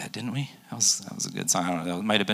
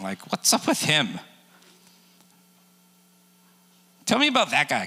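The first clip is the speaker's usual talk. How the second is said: jealous Peter; 3 semitones higher than usual. Retold or imitated. Peter whining about John.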